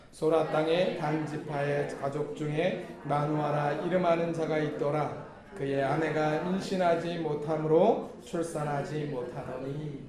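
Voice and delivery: even, measured reading aloud; scripture reading. Real, not acted. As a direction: lead the congregation in reading the verse. (고른 어조의 성경 봉독)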